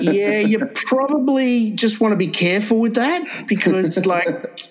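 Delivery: high, laughing cautious advice; laughing through words. Retold or imitated. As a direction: giggle while giving careful warning. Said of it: "And I went".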